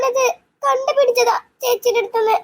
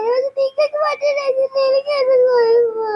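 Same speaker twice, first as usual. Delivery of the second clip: slow, crying question; slow tearful plea; 3 semitones higher, slower than usual. Acted. Sister asking her family through tears, slow and crying. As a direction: let the tears slow the words.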